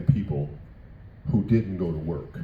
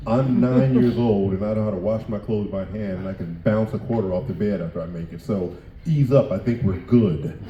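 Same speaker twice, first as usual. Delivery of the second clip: put-on sassy kid comeback; 5 dB louder than usual. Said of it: "I was like".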